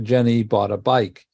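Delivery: Jenny bought a bike, with the main stress landing on bike. Shown as a demonstration. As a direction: let the phrase lead up to bike. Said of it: "this is the main stress".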